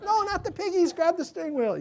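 high-pitched pretend alarm, not shouted; hammed-up fretting in a squeaky-high pitch; playful mock panic. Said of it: "I played like".

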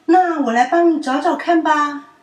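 high, loud cheerful offer; eager friend offers help; helpful child. A narrator's reading. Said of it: "淘淘说". (热心地提议)

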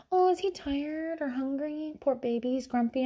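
soft, put-on pitying coo; imitating a sympathetic lady, hushed; imitated cooing sympathy. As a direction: coo softly over a grumpy baby. Voices sympathetic lady cooing over child.

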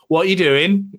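voicing a nosy pet. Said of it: "an animal just going".

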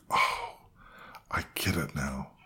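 realising. Retold or imitated. Realisation retold as thought.

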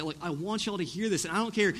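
firm, emphatic declaration; bold. Retold or imitated. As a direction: lay down the truth without apology. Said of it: "he uses such bold language".

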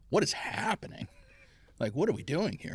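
high, baffled mock disbelief at the lights still on; retold disbelief. Player recalling lights still on, in high mock disbelief. Retelling confusion at a late practice.

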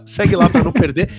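chuckling through the words; laughing. Real, not acted. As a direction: laugh as you say it. Laughing while repeating the plug.

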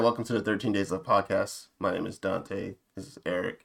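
dropped low and soft, tossed-off; quiet mumbled recap. Retold or imitated. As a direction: mutter the intro under your breath. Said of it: "I said".

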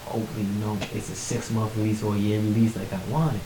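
soft, awed murmur to God; retold quiet, private prayer; hushed prayer. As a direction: pray under your breath, amazed. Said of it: "I'm praying, I'm like".

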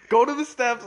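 high, loud imitation of a teacher's command; mock teacher's order. Teacher ordering a student to the steps, mock stern. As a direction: send him out instantly, loudly. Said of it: "immediately she was like".

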